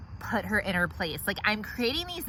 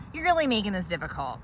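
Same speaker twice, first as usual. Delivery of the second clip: exasperated; 4 semitones lower, 5 dB quieter than usual. Acted. Sighs before speaking.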